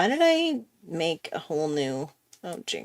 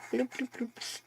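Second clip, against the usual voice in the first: little high-pitched bloops; playful bloop noises; 6 semitones higher, 8 dB quieter than usual. Shown as a demonstration. Artist dotting in little details, playful bloop sounds. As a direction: pop out tiny, higher bloops. Imitates little blobs while drawing.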